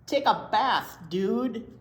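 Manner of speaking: a hint of a surfer fly. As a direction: tell him off like a cool fly.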